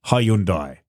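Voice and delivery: deadpan "Hyundai" with a falling "dye"; imagined owner's pronunciation. Retold or imitated. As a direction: deliver "Hyundai" after a pause, ending "dye". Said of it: "he would have pronounced it".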